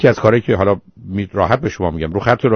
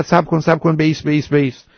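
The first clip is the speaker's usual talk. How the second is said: retold shout; 7 semitones higher than usual. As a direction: call out high for him to stop, half-acted. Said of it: "این مرد فریاد زد".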